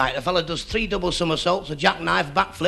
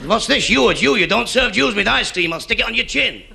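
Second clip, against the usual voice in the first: louder, higher angry shout at the ice cream man; 5 semitones higher, 3 dB louder than usual. Retold or imitated. Father shouting at the ice cream seller, angry shout. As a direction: bellow it like an outraged father. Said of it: "What you shouting about?".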